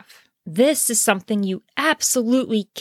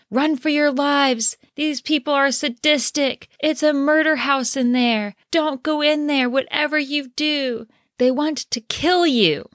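mock panicked yelling, pitched higher; hysterical screaming warning; 5 semitones higher than usual. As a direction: play a frantic man shouting a warning, voice high. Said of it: "they're screaming at everyone".

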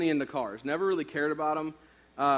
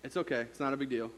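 softer, lower, calm forgiving voice; gentle reassurance; 4 semitones lower, 5 dB quieter than usual. Retold or imitated. Father forgiving his terrified son, softly calm. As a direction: soothe a scared kid. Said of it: "his response was".

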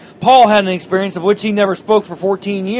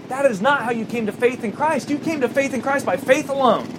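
Paul scolding Chuck. Acted. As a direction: scold fondly, like Paul rebuking a foolish believer. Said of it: "And Paul's like".

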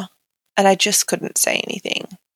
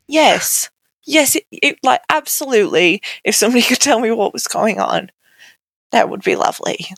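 higher, eager, rushed yes; eager relief; 3 semitones higher than usual. Retold or imitated. Retelling her reply to the nurse, eagerly relieved. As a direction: grab at the offer, relieved.

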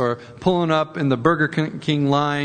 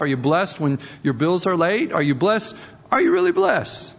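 mock-challenging sarcasm, only lightly voiced; preacher voicing his inner cynic to a cheerful clerk; cynical inner voice. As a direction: poke at them with dry sarcasm. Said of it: "it kinda goes like this in my head".

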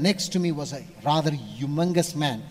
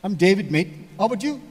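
light Australian; 3 semitones higher, 4 dB louder, faster than usual. Retold or imitated. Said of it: "they have the mate thing".

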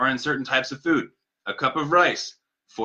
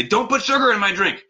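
mock attack, higher and sharp; 8 semitones higher, 3 dB louder than usual. Customer attacking barista over sugar, mock angry snap. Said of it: "if you're gonna attack them".

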